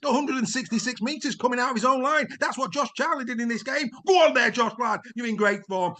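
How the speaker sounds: big rising sports-highlights commentary, a few shouts; excitable commentary. Acted. Presenter calling the highlights reel with hammed-up excitement. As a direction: sell every score like the match of the year.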